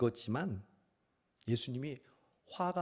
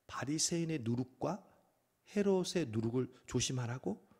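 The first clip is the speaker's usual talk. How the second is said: softer puzzled repeating with a questioning rise; puzzled echo; 4 dB quieter than usual. Retold or imitated. Disciples puzzling over Jesus' words, baffled echo. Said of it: "서로 수군거립니다".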